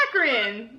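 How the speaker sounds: Akron said slowly with a stretched A; drawn-out Akron A. Shown as a demonstration. Demonstrating own accent to the host, drawn-out Akron A. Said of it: "my vowels are very drawn out".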